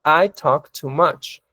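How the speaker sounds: slow, careful teacher read; slow clear example; slow model sentence. Shown as a demonstration. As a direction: spell it out slowly for learners. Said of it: "Y aquí un ejemplo".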